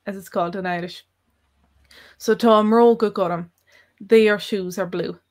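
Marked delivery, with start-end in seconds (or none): 2.2-3.5 mróga said with an m in place of the b; tá a mróga gurm with eclipsis on mróga; eclipsed mróga. Shown as a demonstration. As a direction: stress the m at the start of mróga. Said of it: "here we're adding eclipses".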